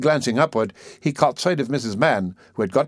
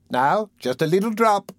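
persuasive; 10 semitones higher than usual. A narrator's reading. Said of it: "said Missus Mann persuasively".

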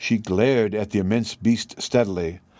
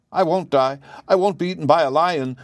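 high, wailing refusal; 6 semitones higher than usual. A narrator's reading. Wife facing the lion, wailing. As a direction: wail it out in despair. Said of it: "wailed Aunt Em".

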